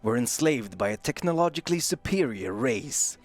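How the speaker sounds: slow, dramatic trailer narration; lightly voiced epic trailer read; movie trailer voice. Shown as a demonstration. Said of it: "epically read the backstory".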